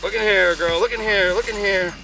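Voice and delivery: calling from far away. Real, not acted. Calling dog out in the field.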